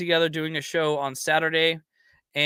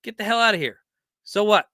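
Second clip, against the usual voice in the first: higher, mock-dismissive brush-off; dismissive scoff; 5 semitones higher, 3 dB louder than usual. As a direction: wave off the critics with a scoff. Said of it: "They say".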